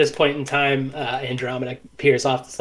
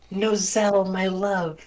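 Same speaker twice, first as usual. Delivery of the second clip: raised, yearning reunion greeting; longing Andromeda voice; 6 semitones higher, slower than usual. Acted. Andromeda greeting Braca and Nozel, lightly yearning. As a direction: reach for a lost love.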